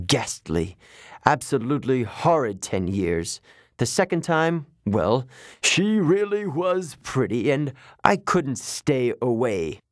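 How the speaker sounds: put-on a touch of a sulky child; god complaining like a pouting child; pouting little kid. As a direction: whine about the unfair punishment. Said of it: "sounded about six years old, like a pouting little kid".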